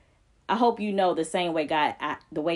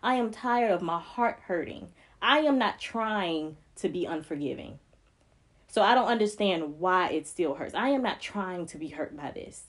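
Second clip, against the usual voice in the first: tearful prayer. Real, not acted. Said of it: "But this prayer".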